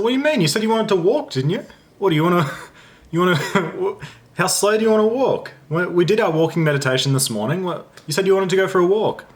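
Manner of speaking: high, laughing, exasperated disbelief; exasperated retort. Retold or imitated. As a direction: pitch up in incredulous disbelief, laughing through it.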